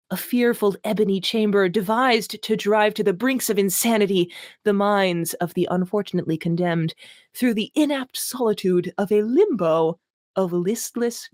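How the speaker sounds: mock-grand reading of purple prose; hammed-up literary reading; dramatic reading. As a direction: read it like overwrought fantasy. Reading a bad novel aloud.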